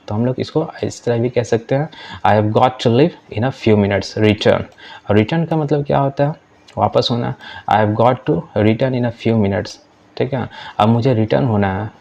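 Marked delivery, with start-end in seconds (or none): 2.3-4.6 slow, careful classroom English; deliberate teacher read-aloud; slow model reading. Shown as a demonstration. Teacher reads model sentence. 7.7-9.8 slow, careful classroom English; deliberate teacher read-aloud; slow model reading. Shown as a demonstration. Teacher reads model sentence.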